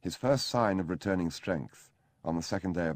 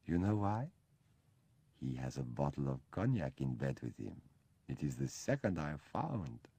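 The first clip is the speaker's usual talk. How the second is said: a softer, lightly voiced simple monk; kindly monk fussing over a patient; gentle lay brother; 4 dB quieter than usual.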